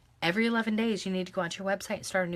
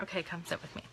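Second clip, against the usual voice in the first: whisper; 9 dB quieter, much faster than usual. Real, not acted. Mom settling toddler beside her.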